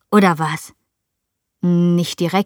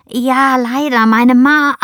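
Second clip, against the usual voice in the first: higher, louder answer cut short; breaking off mid-word; 5 semitones higher, 4 dB louder, slower than usual. A narrator's reading. Child nearly gives away the truth to Lukas, breaking off abruptly. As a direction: blurt it out, then cut yourself off. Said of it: "unterbreche mich dann aber selbst".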